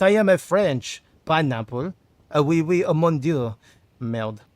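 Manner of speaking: hammed-up, badly faked French accent; playful mock-French accent; butchered French accent. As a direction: put on a clumsy French accent. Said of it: "Not the accent. I know, I'm sorry. I, I butcher it every time".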